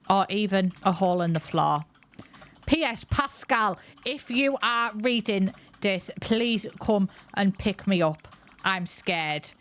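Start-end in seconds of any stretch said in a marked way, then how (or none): 2.6-9.5 slow, measured read-out; reading a note aloud. Acted. Player reads a character's plea for rescue, slow dictated read-out. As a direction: spell it out slowly, phrase by phrase.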